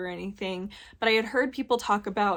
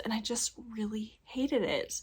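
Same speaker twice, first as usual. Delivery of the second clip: whispered; 7 dB quieter than usual. Real, not acted. Disgust at the men's view of women.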